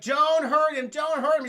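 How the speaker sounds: high, loud mock pleading; hammed-up desperate shout; acted yelling. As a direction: yell it like a frantic wife in a melodrama. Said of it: "she's yelling at Spider-Man".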